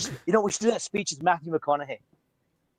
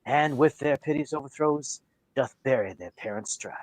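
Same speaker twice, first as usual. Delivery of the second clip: Shakespeare recital; slower than usual. Acted. Recites Romeo and Juliet prologue.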